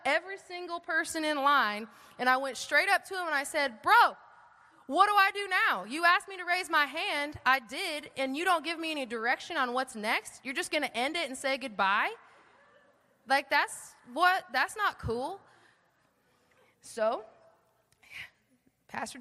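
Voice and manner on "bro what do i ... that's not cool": higher-pitched, incredulous challenge; indignant confrontation. Retold or imitated. New believer marches up to challenge the pastor, indignant. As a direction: call him out, mock-indignant.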